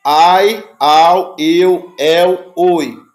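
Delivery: ai, au, eu, el, oi read out loud, each one separate; Greek diphthongs. Shown as a demonstration. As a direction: drill each diphthong clearly. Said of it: "não, espera".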